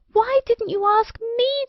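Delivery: high, indignant cry of many fairies; crying out together. A narrator's reading. Offended fairies crying out at the queen in one voice. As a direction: protest as one offended crowd. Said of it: "they all cried with one voice".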